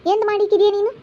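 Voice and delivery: high, sharp accusing question; angry retort. Acted. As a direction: throw the question back at her angrily. Family quarrel, accusing sister. (ಸಿಟ್ಟಿನಿಂದ ಜೋರಾಗಿ ಪ್ರಶ್ನಿಸುವುದು)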